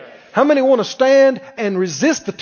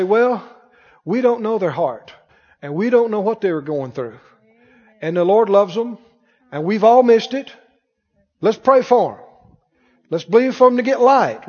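gracious reply. Retold or imitated. Preacher showing the congregation a gracious, merciful answer. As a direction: model the kind response for them. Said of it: "You talk like this".

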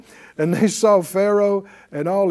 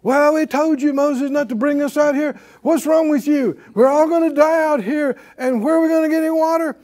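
higher whiny grumbling at Moses, all in one breath; whining complaint; 6 semitones higher than usual. Retold or imitated. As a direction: complain to Moses like a spoiled crowd. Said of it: "You can slide into".

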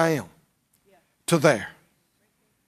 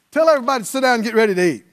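normal talking voice

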